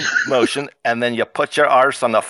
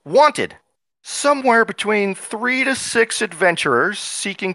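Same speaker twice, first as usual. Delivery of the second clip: game master announcing a wanted poster; flyer read-out; 4 semitones higher than usual. Acted. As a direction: proclaim it like a town notice. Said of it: "found a flyer in town which reads".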